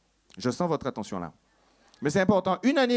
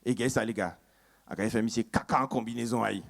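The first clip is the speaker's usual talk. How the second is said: Guadeloupéen moqueur; 7 semitones lower, 4 dB quieter than usual. Acted. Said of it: "le Guadeloupéen qui leur fait".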